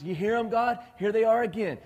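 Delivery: loud, high, acted complaint; exasperated outburst. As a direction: raise your voice in mock exasperation. Acted outburst to God about complainers.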